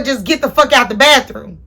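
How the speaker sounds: mock furious get out; retold angry order. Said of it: "I took it out on my sister and told her".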